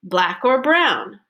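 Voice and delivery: both "black" and "brown" lifted as focus words; stress on black and brown. Shown as a demonstration. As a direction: hit "black" and "brown", each with a pitch change. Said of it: "when the parent says black or brown".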